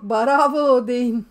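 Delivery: cheering the viewers on; loud cheer. Real, not acted. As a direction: call out bravo slowly to the chat. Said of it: "Sema Hanım arada bir sıkıntı yok".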